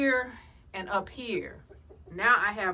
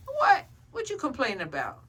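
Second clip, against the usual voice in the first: high squeak; 4 semitones higher than usual. Pretend. Squeak at chicken.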